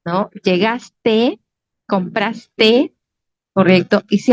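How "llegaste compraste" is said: "Llegaste, compraste" each ending on a clear open te; no final S. Shown as a demonstration. Teacher listing correct verb forms, "Llegaste, compraste" with no final s. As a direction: finish "Llegaste" and "compraste" on the vowel, without s. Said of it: "Esta S jamás va a ir".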